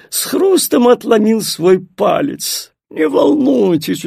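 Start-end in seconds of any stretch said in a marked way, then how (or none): 2.9-4.0 reassuring. Acted. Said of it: "успокоил он".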